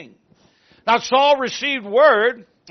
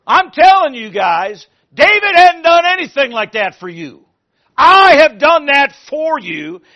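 loud, higher preaching rant of a wronged king; angry king's rant; 4 semitones higher, 10 dB louder than usual. Acted. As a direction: accuse them loudly as betrayed Saul.

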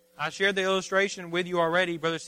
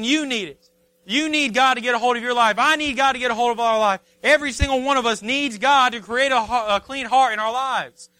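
raised, higher preaching voice; impassioned preaching; 5 semitones higher, 5 dB louder than usual. Real, not acted. Preacher urges the church that all need God, impassioned. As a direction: press it home to the congregation with force.

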